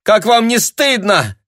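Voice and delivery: high, loud indignant cry; ringing cry. A narrator's reading. Tanya, shaken, cries out at the passer-by, ringing.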